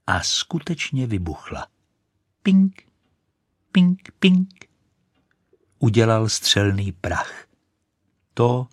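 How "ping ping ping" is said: high, sharp popping pings; ping sound. Acted. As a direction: spit out the pings. Rocket explodes. (vysoké, ostré pingnutí)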